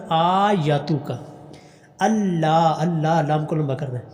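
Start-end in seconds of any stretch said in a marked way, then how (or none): 0.1-1.1 آیتک drawn out slowly with a long first vowel; correct reading. Shown as a demonstration. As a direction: say آیتک slowly, lengthen the hamza vowel only. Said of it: "بلکہ کیا پڑھنا؟".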